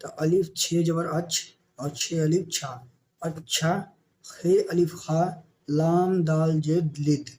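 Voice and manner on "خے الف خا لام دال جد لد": slow spelling out. Shown as a demonstration. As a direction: spell out each letter slowly. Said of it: "teacher sounds out spelling". (حروف آہستہ آہستہ ادا کرنا)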